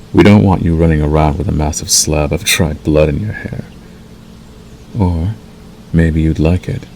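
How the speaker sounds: measured, unhurried wolf mentor role; lightly voiced werewolf guiding a new packmate. Acts wolf role to listener.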